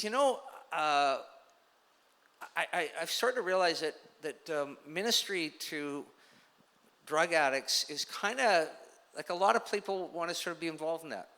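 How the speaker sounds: man confessing to the preacher, lightly tearful. Retold or imitated. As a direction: retell a weeping man's words, lightly choked. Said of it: "five minutes of crying".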